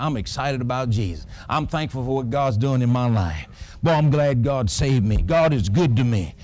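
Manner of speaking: eager, proud praise of God; bragging on God. Shown as a demonstration. Pastor showing the church how to brag on God, eager. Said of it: "You just start saying".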